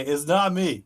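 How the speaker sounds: a rough copy of Rosie's voice; slightly wrong copied voice. Acted. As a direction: try to sound like Rosie, not quite right. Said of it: "mimic Rosie's voice".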